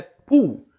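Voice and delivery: "pool" said clearly, with a long u sound; English word shown. Shown as a demonstration. Teacher modelling "pool" for Brazilian students. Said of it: "encontro de dois Os".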